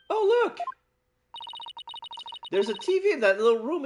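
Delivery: high excited call. Acted. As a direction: point it out eagerly. Voicing excited character.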